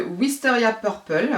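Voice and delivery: French-accented English colour name. Real, not acted. Vlogger showing viewers her purchase, French-accented English. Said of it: "J'aime bien mon accent".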